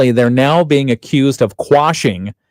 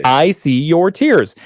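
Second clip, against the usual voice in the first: slow gentle comfort; 4 semitones higher, slower than usual. Shown as a demonstration. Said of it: "you could also say alternatively".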